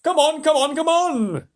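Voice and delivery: high, loud, impatient yelling; impatient shout. A narrator's reading. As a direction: hurry them up with a yell. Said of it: "shouted the centipede".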